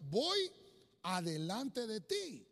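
commanding voice of God. Acted. Preacher voices the Lord.

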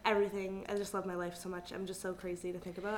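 monotone vocal fry. Real, not acted. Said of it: "You're saying this so monotone".

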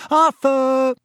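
high, loud call to a husband. A narrator's reading. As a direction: call him from down the platform. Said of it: "called Missus Weasley".

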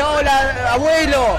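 high, loud, sing-song bunny greeting; a chirpy bunny calling to grandpa; cheerful bunny. Pretend. Bunny mascot greets the lost old president, high and bright. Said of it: "Viene el conejito feliz y dice".

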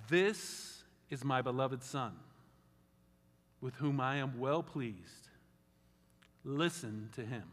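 slow, solemn reading; God's voice from the cloud. Retold or imitated. Scripture read as God speaking from the cloud, slow and solemn.

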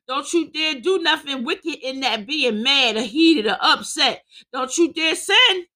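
forceful preaching with driving repetition. Real, not acted. Preacher explaining anger without sin, forceful preaching. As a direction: preach the warning hard.

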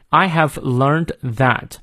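"I have learned that" slowly, stopping after "that"; pause after "that". Shown as a demonstration. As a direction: hold "that", then a break. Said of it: "这里要停顿一下". (慢读，在"that"后停顿)

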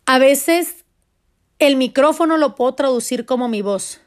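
normal talking voice

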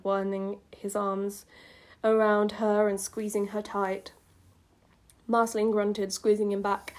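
subdued read-aloud voice; story narration. A narrator's reading. Reads old story aloud.

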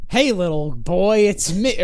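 drawn-out parrot-voice come-on; Iago. Retold or imitated. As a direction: lure them slowly in a cartoon parrot voice. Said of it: "using the parrot voice".

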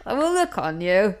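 lightly put-on robotic voice; comic fortune-teller lines in a synthetic-speech imitation; Stephen Hawking. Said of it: "I sound a bit like Stephen Hawkins".

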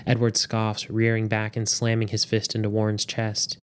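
measured audiobook narration; story narration. A narrator's reading. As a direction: read the story aloud with steady drama. Reads story aloud.

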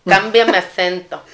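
slow, lightly put-on Mexican accent like a famous singer. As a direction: drag out a hint of a Mexican accent. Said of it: "Habla así como una versión de un cantante". (acento mexicano ligero, lento)

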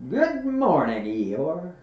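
high, loud bright greeting; cheery Pooh. A narrator's reading. Pooh greets the old donkey, high and cheery. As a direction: call it out cheerfully. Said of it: "they called out cheerfully".

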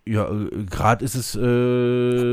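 glitchy robot voice from the line; garbled like a broken call; flat robotic monotone. Real, not acted. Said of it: "jetzt hört man schon wieder Roboterstimmen".

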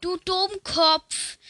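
hoch und langsam gedehnt krächzen; Papageienstimme. Acted. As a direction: sprich es nach wie ein Papagei. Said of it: "Dann sagt er". (Papagei plappert der Frau das Schimpfwort nach, hoch und gedehnt)

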